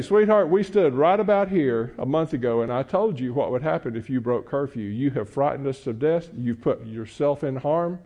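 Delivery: calm firm parent. Retold or imitated. Calm parent confronting daughter.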